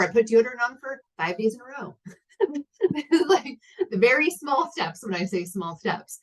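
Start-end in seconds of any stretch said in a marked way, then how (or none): 0.0-2.0 higher-pitched, lightly hammed-up triumph; mock proud boast. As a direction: celebrate a tiny win, half-joking and higher. Mock boast about tiny achievements.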